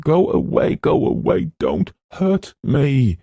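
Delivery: very high, breathless pleading shriek; ghost child screaming. Acted. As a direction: beg the unseen tormentor, terrified. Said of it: "it screamed".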